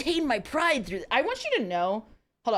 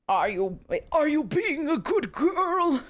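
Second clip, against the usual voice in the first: low voice; 2 semitones higher, slower than usual. Acted. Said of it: "Manson's voice was low in my ear".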